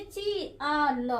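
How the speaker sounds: ची आ ल, each sound held apart slowly; a teacher spelling slowly for children. Shown as a demonstration. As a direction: sound out ची, आ and ल one by one. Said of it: "अगर दोनों को एक ही साथ पढ़े".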